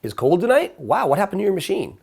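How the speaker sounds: friendly concern. Retold or imitated. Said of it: "I'm gonna say it like that".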